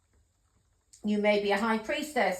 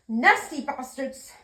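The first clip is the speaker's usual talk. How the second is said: bitter outburst; 3 semitones higher, 5 dB louder, slower than usual. Real, not acted. Bitter outburst after mother's death.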